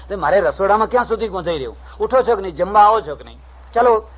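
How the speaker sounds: a nagging wife calling him to eat; wife yelling at her husband to come eat; scolding wife. Retold or imitated.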